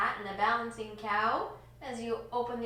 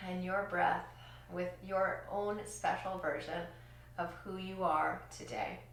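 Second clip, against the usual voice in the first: soothing guide; 2 semitones lower, 3 dB quieter than usual. Acted. Calming breath guidance.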